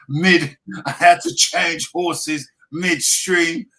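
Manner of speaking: high, loud self-defence; flustered protest. Real, not acted. Explaining a botched accent to a laughing co-host, flustered and loud. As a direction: plead your case, voice jumping up and loud.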